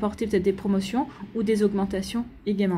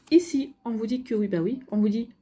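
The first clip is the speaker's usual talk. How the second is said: with hiccups. Real, not acted. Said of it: "pardon, j'ai le hoquet".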